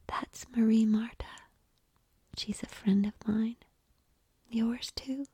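soft whisper into an ear, fading. A narrator's reading. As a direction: breathe it close to his ear. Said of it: "Summer whispered into his ear".

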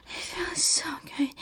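soft breathy whisper. Acted. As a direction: whisper it close to the ear. Whispered line.

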